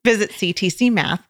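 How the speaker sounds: lightly put-on Oklahoma twang; Oklahoma accent. Shown as a demonstration. Host trying her best Oklahoma accent for a sponsor read, Oklahoma accent. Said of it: "Oklahoma accent".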